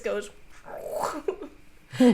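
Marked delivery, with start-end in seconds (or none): 0.5-1.5 quick wordless whoosh; voiceless mouth sound effect; imitated shirt noise. Game master imitating a shirt flying off, whooshed.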